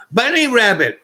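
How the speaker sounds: high, loud dazed sing-song; stoned goofy reply. Retold or imitated. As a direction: chant it like a stoned kid. Stoned speaker refuses cigarette.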